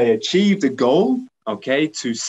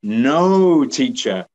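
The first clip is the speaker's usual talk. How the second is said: pupil answer; 4 dB louder, slower than usual. Pretend. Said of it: "Can you hear the P sound?".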